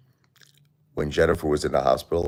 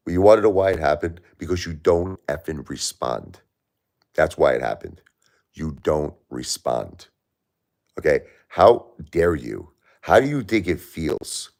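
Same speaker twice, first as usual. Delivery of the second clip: angry rant. Real, not acted. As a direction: spell out each grievance with real anger. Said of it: "Seriously, I'm pissed".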